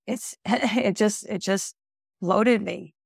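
hoarse, voice giving out; strained, fading raspy voice; losing voice. Real, not acted. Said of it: "I'm sorry, I'm losing my voice".

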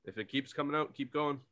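a hint of a greedy executive pitching; mock executives. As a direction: play a studio boss rubber-stamping a sequel. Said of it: "They're just like".

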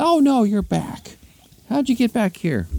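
high, loud cry of dismay; hammed-up woman's dismay. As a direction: wail it in a high falsetto. Dismayed woman finds elephant back.

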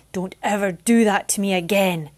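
a touch of a furious scold; angry shout. Acted. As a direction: snap it at her in anger. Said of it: "he shouted as they landed".

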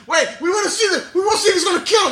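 put-on high, pleading kids' chorus; kids begging. Classmates begging the coach to keep watching, high pleading. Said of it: "everybody was like".

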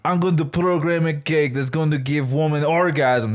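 deliberately bad French accent; hammed-up fake French accent; terrible French accent. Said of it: "This is the worst French accent in the world".

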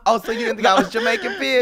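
fast, high, loud mock outrage; mock offended. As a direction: pretend to be hurt, playfully.

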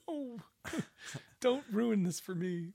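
high, mock-pleading with a laugh; laughing plea. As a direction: beg him jokingly not to spoil it. Playful plea, retold.

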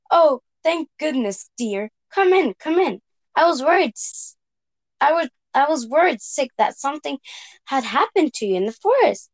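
lightly voiced worried granny; a hint of a fretful old grandma. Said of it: "said Grandma".

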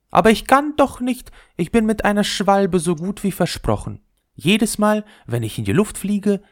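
very high, dainty ball voice; the leather ball snubbing the top, very high; haughty little ball. Acted. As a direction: look down your nose at the top. Ball declining the proposal.

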